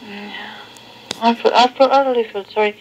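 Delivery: tinny answering machine recording. Real, not acted. Played answering machine tape.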